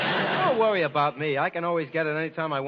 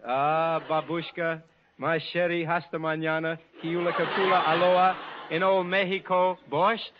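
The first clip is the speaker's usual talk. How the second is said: fake Russian gibberish. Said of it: "saying something in Russian".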